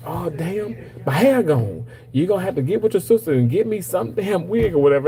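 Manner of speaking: a light impression of an annoyed mother; mom in the dream. Dead mom demanding a wig in a dream, mock complaining.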